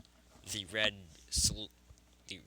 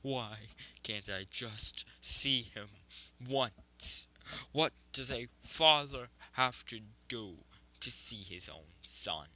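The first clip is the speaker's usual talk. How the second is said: anguished outburst; 6 dB louder than usual. Acted. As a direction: cry out in desperate frustration. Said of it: "fusion of his voice and Mito's".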